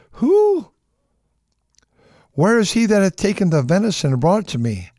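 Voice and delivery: a high, cracking cry of alarm; trembling shock. Acted. Isaac trembling, crying out in shock at the deception. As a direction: jolt up in shock. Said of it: "Isaac trembled very exceedingly".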